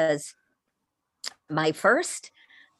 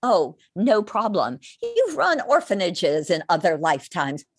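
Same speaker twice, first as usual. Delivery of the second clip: mildly higher, calm reassurance; reassuring record keepers; 6 semitones higher than usual. Retold or imitated. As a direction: soothe her like a kindly guide. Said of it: "record keepers will say".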